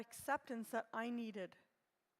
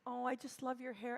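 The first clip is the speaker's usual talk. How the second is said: put-on fond, coaxing call to a little girl; tender coaxing. Shown as a demonstration. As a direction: coax her sweetly, like praising a child. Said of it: "And I talk to her like that".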